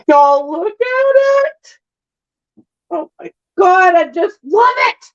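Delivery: high, thrilled "look at it"; excited. Real, not acted. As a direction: gush over it, up high. Showing off her finished painting.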